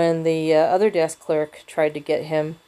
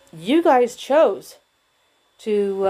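slow, higher and louder, barely holding back anger; heated outburst; 3 semitones higher, 4 dB louder, much slower than usual. Retold or imitated. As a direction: spit it out, anger slipping through. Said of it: "I said this in a more controlled voice".

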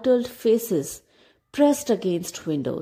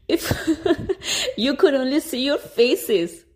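laughing through the words, higher; chortling; 6 semitones higher than usual. A narrator's reading. Rufus mocking villagers, chortling through laughter. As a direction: giggle out the taunt. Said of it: "he chortled".

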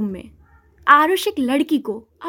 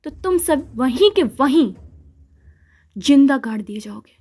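stern warning. Acted. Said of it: "एक रॉब से warning दी".

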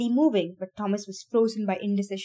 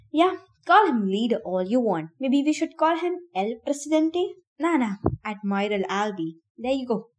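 mocking; 2 semitones higher than usual. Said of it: "Minho barked a grunt".

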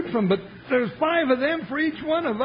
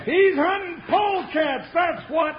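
shouting; 4 semitones higher than usual. Acted. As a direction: yell it defiantly at the outlaws. Sidekick yells at the outlaws.

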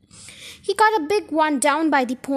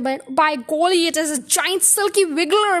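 frightened scream; 2 semitones higher, 4 dB louder than usual. Acted. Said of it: "She screamed".

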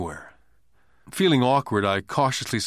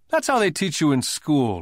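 smiling; 5 semitones higher than usual. A narrator's reading. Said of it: "he said, smiling".

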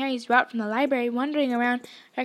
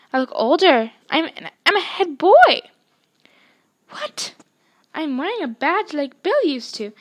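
rising, louder, higher thrilled telling; excited; 6 semitones higher, 6 dB louder than usual. A narrator's reading. Scene: Ron describing his dream in the mirror, thrilled. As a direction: build delight word by word. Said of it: "look excitedly at Harry".

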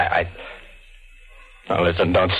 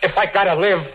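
frantic plea; 10 semitones higher, faster than usual. Acted. Danny pleading with his ghostly double, frantic shout. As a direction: beg the shadow to leave you be.

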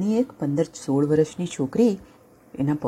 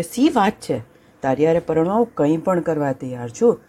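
eager lion. Acted.

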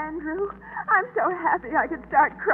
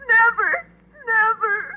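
despairing; 4 semitones higher, 3 dB louder, slower than usual. Acted. Despairing girl repeats.

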